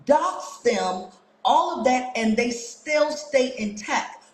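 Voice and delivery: slow, deliberate challenge, item by item; pointed questioning. Real, not acted. Streamer challenging critics about their hate pages, slow pointed questioning. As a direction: space out each accusation slowly and deliberately.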